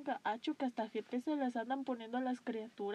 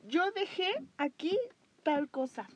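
scatterbrained mom; 6 semitones higher, 6 dB louder than usual. Retold or imitated. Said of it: "luego es de las de".

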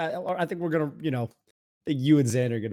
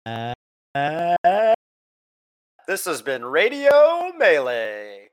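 electronically altered show sign-off voice; voice changer; 2 semitones higher, 4 dB louder, much slower than usual. Acted. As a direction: read the outro through a voice changer. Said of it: "the voice changer".

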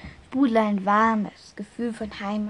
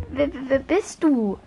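frightened stammer; 3 semitones higher, 3 dB louder than usual. Acted. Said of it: "konnte Marianne grad noch so herauspressen".

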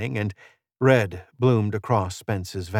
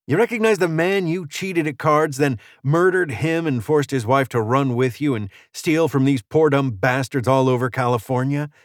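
raised, accusing gunslinger voice; vengeful stranger; 5 semitones higher than usual. Acted. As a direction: confront your killer with his crimes.

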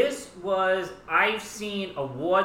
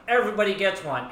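talk show host; 4 semitones higher, 4 dB louder, faster than usual. Retold or imitated. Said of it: "if anybody saw Oprah Winfrey".

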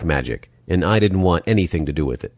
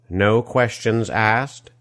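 put-on slow, musing villain accent; drawn-out European villain accent, questioning; Die Hard villain accent; 5 semitones higher, much slower than usual. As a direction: echo it slowly in a movie villain's foreign accent. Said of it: "accent sounding like the villain of a Die Hard film".

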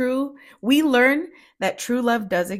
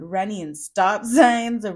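laughing; 6 dB louder, much slower than usual. Real, not acted. Laughing while describing chasing.

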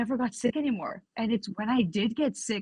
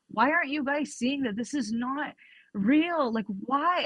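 higher, pleading frustration at friends; exasperated outburst; 4 semitones higher than usual. Retold or imitated. Retelling her angry posts to followers, exasperated higher voice. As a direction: demand why nobody sees it. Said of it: "I just started getting angry".

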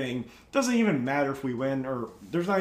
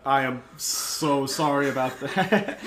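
laughing apology; 2 semitones lower, slower than usual. Retold or imitated. Retold apology to knocked-down friend.

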